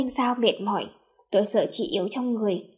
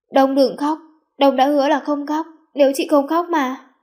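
put-on higher, louder coaxing, as to a child; coaxing, soothing; 4 semitones higher, 6 dB louder than usual. A narrator's reading. Sister comforting the crying narrator, gently coaxing. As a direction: soothe a crying little one. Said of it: "Tôi cứ như một đứa bé đang được dỗ dành".

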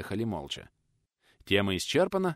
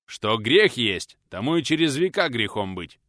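firm, louder, slow conviction; convinced; 3 semitones higher, 8 dB louder than usual. Acted. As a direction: state it as unshakable truth. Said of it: "убеждённо отвечал Милован".

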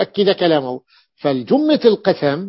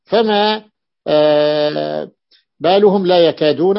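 drawn-out puzzled wonder, louder on بالهم; astonished question; 3 dB louder, slower than usual. Retold or imitated. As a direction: ask فما بالهم as if truly baffled. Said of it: "ما له يستغرب، يتعجب". (تعجب واستغراب)

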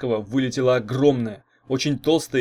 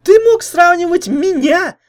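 put-on very high, loud outraged girl; boiling over; 12 dB louder than usual. A narrator's reading. Jealous girlfriend explodes at the comparison, very high and furious. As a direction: erupt in fury, shrill and loud. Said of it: "вскипела Лайда".

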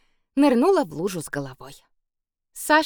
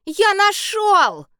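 high, slow triumphant shout; boy proudly yelling to Sasha that he found the puddle, excited shout; excited call; 13 semitones higher, 7 dB louder, much slower than usual. A narrator's reading. Boy announces finding puddle.

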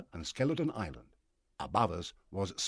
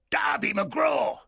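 much higher, loud, slow call; unearthly voice; 7 dB louder, much slower than usual. Acted. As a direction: ghostly cry from far off. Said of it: "it shouted from far away".

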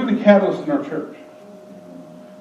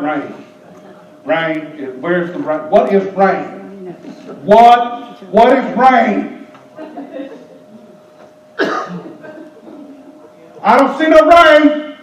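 voicing a doubter; much slower than usual. Voicing Noah's doubting family.

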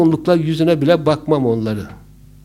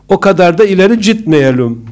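put-on loud, higher Black Sea accent retort; 4 semitones higher, 9 dB louder than usual. Driver to teasing passenger, loud retort in Black Sea accent. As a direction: fire back in a Karadeniz accent. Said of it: "Karadenizliymiş".

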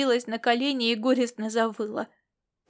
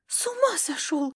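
indignant start; 5 semitones higher than usual. Acted. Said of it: "вздёрнулась было Лилиан".

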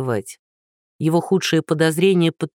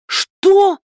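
shrill furious roar, much higher and louder; roaring old woman; 7 dB louder than usual. Acted. Old woman roaring at Andrey, shrill and furious. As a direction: explode in outrage. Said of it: "взревела бабуля".

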